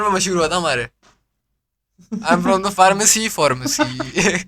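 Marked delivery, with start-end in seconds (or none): 2.1-4.4 mock caller line, last word slow and rising; imitating a colleague. Third retelling of the coworker's line, drawn-out mock caller. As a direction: stretch out the final pharmacy. Repeating the famous call line.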